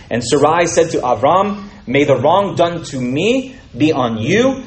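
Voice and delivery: measured, earnest Bible reading; scripture reading. Acted. Preacher reading Genesis to his listeners, measured and earnest. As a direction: read the story to the congregation with weight. Reads Genesis passage aloud.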